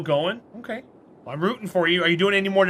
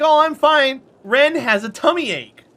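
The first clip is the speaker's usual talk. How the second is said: lightly voiced friend, higher and louder; imitating Pixie; 6 semitones higher, 6 dB louder than usual. Imitating her friend Pixie's reply, light and high. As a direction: toss it off as casual news. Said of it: "She's like".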